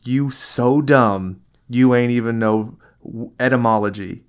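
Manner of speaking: a light gangster trash-talk voice; gangster roast. Retold or imitated. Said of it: "gangster level roast battle".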